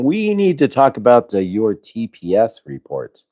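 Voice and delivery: lightly voiced droning boss; slow, bored boss drone; Lumberg impression. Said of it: "starts going".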